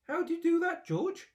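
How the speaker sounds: very high, loud, amazed cry. A narrator's reading. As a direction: ask in breathless wonder. Excited father asking George.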